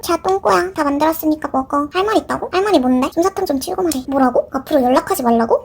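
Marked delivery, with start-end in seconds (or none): none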